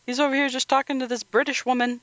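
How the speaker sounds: who is this, said in comic confusion; baffled. Retold or imitated. Watching the scene and voicing confusion, high and baffled. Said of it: "I was like".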